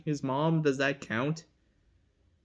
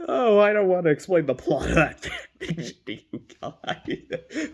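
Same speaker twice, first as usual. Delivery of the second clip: real laughter breaking into speech; laughing through words; 4 dB louder than usual. Real, not acted. Vlogger too embarrassed to explain a fanfic plot, laughing. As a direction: start loud, dissolve into giggles.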